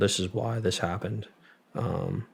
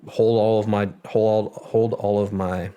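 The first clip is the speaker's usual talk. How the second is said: louder, insistent repeated order; retold firm demand; 4 dB louder, slower than usual. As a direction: insist on it, louder each restart. Retelling firm demand about meds.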